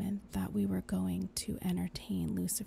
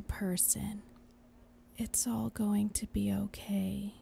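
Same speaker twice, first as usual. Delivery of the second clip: reassuring whisper. Acted. Angel soothing whisper.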